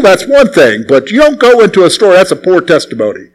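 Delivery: lightly acted, emphatic moral lecture; imitated deacon's reproof. Old deacon admonishing young man about the video store, imitated scolding. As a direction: lay down church rules as a disapproving elder.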